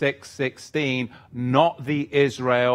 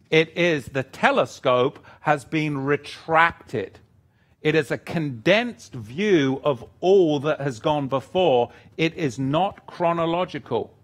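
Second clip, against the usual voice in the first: ordinary talk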